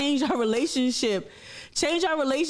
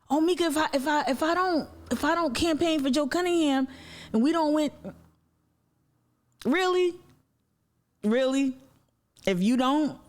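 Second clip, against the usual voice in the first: mock politician plea; 3 semitones higher than usual. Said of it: "imitating politician's plea".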